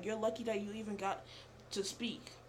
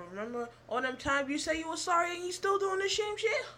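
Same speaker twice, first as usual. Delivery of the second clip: mock whiny outburst; 8 semitones higher than usual. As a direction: pitch climbing into a hammed-up wail. Acted reproach climbing into a wail.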